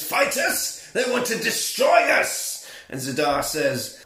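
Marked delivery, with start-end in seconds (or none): 0.0-2.7 high excited shout. Retold or imitated. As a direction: yell it out in alarm. Acted villain outburst in recap.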